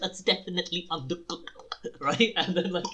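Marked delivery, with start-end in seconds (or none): 0.0-1.5 "definitely" pitched up in a mock verdict; stress on definitely. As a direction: repeat the judge's verdict, punching "definitely". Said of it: "the emphasis on the word".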